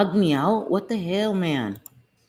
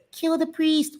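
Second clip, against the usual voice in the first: high, strained movie-demon imitation; demon from The Exorcist; 11 semitones higher, slower than usual. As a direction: quote the possessed line in a mock demon voice. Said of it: "Remember when they said".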